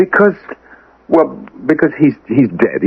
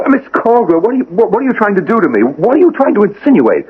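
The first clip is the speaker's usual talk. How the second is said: upset protest; 6 semitones higher, faster than usual. Acted. Hale protests accusation in quarrel.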